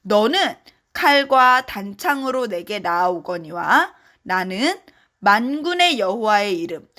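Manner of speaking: group Bible reading; reading aloud together. Shown as a demonstration. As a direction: lead the children through the verse. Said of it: "같이 한 목소리로 읽어봤으면".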